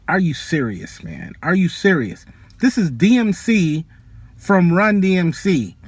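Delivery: reliving the outrage at the door; indignant retold protest. Venting at bouncers over sneakers.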